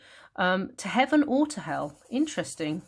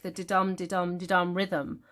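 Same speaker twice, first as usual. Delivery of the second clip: "didum, didum, didum" pulsing weak-strong; iambic rhythm. Shown as a demonstration. Teacher naming the metre, "didum" stressed on the second syllable. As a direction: lean on every "dum" of "didum". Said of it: "The iambic".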